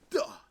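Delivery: short vocal impact noise; imitated thud. Streamer acts out the alleged slam, imitated thud. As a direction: act out the slam with a sudden "duh". Imitates a head hitting the wheel.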